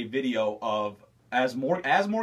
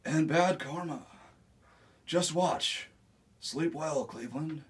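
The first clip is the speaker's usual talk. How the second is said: Keanu Reeves impression; 5 dB quieter than usual. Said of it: "Keanu Reeves".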